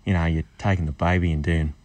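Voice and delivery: Scot putting on an Australian accent; attempted Australian accent. Shown as a demonstration. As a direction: try an Aussie accent over a Scottish one. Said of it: "him doing an American, Australian accent".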